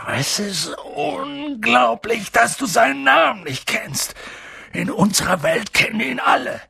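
high, emphatic outburst; incredulous. A narrator's reading. Giant amazed Harry lacks the name, incredulous. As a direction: break off in amazement.

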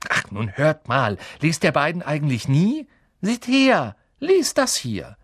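exasperated, rising high and loud; scold, then order them in a high voice; impatient. Acted. Girl pushing book at two friends, exasperated.

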